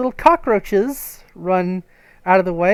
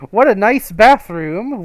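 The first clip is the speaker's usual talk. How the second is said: louder, slow fake praise; sarcastic; 3 semitones higher, 8 dB louder than usual. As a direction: lay the sarcasm on thick. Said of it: "is a lie".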